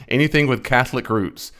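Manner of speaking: breaking into laughter, then speaking through it; real laughing. Real, not acted. Reacting to the clip he just played, laughing. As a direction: laugh helplessly, then repeat it in amused disbelief. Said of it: "I'm just laughing".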